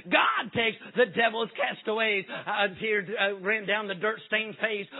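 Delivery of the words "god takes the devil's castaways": slow, shouted pulpit refrain; preacher's cry. Retold or imitated. Preacher crying again to the church, slow shout. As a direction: call it out once more, drawn out. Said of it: "the preacher cried".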